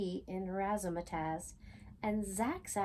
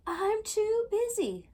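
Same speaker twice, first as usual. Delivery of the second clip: 1 busy and impatient; 12 semitones higher, 5 dB louder, slower than usual. A narrator's reading. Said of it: "said Lizzie again".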